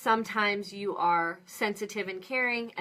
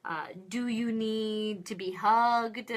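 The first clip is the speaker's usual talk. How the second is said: gentle caring questions; slower than usual. Shown as a demonstration. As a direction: check in gently with the little one. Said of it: "So saying things like".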